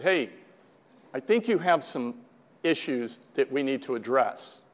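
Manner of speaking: soft, careful retold intervention; mother's gentle confrontation. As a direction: broach it quietly, pausing as you go.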